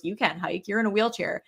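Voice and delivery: understated brush-off; dismissive. Retold or imitated. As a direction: imitate a casual dismissal. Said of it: "like, the dismissal".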